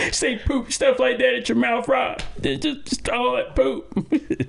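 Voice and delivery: high voice breaking into laughter; laughing. Real, not acted. Teasing Rob about poop talk, laughing through the words. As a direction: push the words out through giggles.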